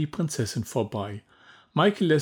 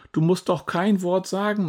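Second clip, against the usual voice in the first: much higher, lightly voiced mother; coaxing mother; 8 semitones higher than usual. A narrator's reading. Mama urges scared Julia, higher coaxing voice. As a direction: coax her gently like a worried mum. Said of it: "meint Mama".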